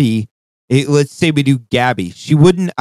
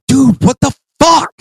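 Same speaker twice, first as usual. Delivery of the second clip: mimicked high, loud disbelief; Brian; 13 semitones higher, 5 dB louder than usual. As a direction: imitate an incredulous outburst. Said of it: "Brian goes".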